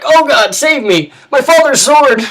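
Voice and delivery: high, loud, hammed-up cries for help; panicked wail. Cowardly NPC shrieks for help in battle, high and loud. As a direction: squeal for rescue like a cowardly braggart. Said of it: "He's like".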